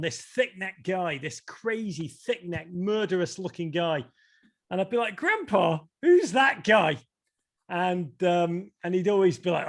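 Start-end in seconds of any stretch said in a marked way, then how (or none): 5.1-7.0 higher, louder retold child's question; lightly acted kid calling out to grandpa. Child asking grandpa in retold story.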